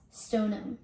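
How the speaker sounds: Stoneham as STONE-um; local pronunciation. Shown as a demonstration. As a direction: drop the h in Stoneham. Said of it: "New Englanders actually say it as".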